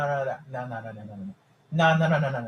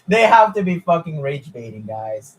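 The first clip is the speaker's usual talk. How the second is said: said through laughter, a bit louder; laughing disbelief; 5 dB louder than usual. Real, not acted. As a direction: laugh while you accuse them. Laughing at absurd fan claim.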